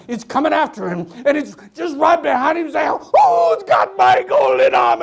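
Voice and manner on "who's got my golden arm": slow, loud, eerie ghost call; ghostly shout. Acted. Ghost right behind the mean man, slow eerie shout.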